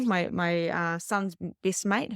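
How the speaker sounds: ordinary talk, nothing marked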